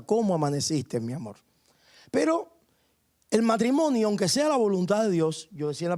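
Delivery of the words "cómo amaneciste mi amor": tender and loving. Retold or imitated. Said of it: "Con cariño, con amor le pregunta".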